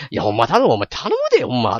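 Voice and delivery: mock Kansai-dialect brother pleading, pitch leaping mid-plea; 関西弁の吹き替え. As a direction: plead insistently in Kansai, imitating the dub. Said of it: "めっちゃ関西弁なんですよ". (関西弁で必死に頼む兄の物真似)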